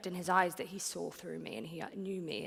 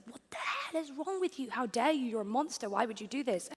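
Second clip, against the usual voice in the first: raised, high indignant retort; retelling her outburst; 4 semitones higher, 4 dB louder than usual. Retold or imitated. Woman retelling how she snapped at her guru, indignant. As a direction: fire it back at him, outraged. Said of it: "And I looked at him and I was like".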